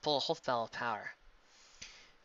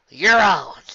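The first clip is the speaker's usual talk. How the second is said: whisper; 6 semitones higher, 18 dB louder than usual. A narrator's reading. Accepting challenge.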